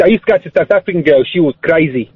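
put-on lingering South African accent. Caller telling of an ex, South African accent. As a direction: stay stuck in South African vowels. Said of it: "You can stop doing the accent now".

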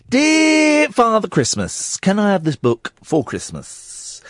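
put-on child's voice. Reads a child's letter aloud.

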